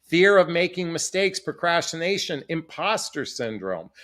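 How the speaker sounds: normal talking voice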